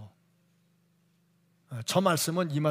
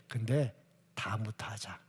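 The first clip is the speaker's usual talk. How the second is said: soft, lower, breathed tempting aside; sly whisper; 6 semitones lower, 6 dB quieter than usual. Acted. Devil coaxing a believer to wait, in a sly whisper.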